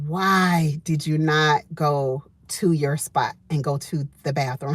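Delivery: a hint of self-scolding, slow; scolding herself. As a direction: chide yourself under your breath. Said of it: "I was saying to myself".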